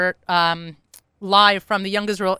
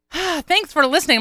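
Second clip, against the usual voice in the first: real winded sigh into higher-pitched words; out of breath; 6 semitones higher than usual. Real, not acted. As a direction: catch your breath with a big exhale, then speak. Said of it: "I'm so out of breath".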